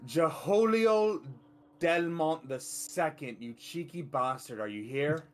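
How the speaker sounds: long, high, loud call of a name; drawn-out shout into the distance, easing toward the end; yelling out. Acted. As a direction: holler the name slowly, then ease off. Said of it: "I will just yell out".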